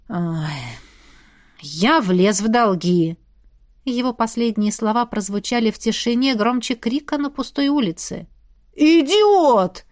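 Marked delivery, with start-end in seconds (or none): 0.1-3.2 rueful confession. A narrator's reading. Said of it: "Он сокрушённо вздохнул". 8.7-9.8 loud, higher cry of idiot; shouted insult. A narrator's reading. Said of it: "вскричал Джульен".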